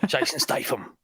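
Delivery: put-on British action-hero accent; Jason Statham accent. Mocking the hammy shark movie, put-on British accent. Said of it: "That accent was".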